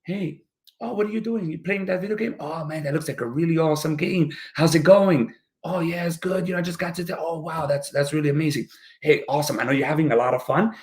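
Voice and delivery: put-on soft, friendly interest in a child; gentle connecting parent. Parent joining a child at a video game, gently interested. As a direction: get down to their level, softly encouraging. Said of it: "Maybe lower your level, get down to here".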